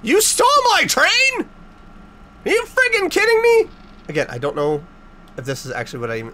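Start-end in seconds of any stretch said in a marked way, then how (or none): 0.0-3.7 high and louder indignation; outraged. Real, not acted. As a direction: cry out at the theft. Game took his toy train.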